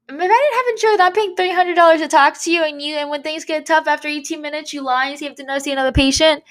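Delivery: high-pitched, outraged retelling of the rant; indignant rant. Retold or imitated. Recalling her rant at the therapist who cut the session short, high and outraged. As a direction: pitch it way up in disbelief.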